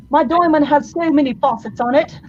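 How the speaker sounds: English accent. Shown as a demonstration. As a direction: put on a playful English accent. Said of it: "like, an English accent".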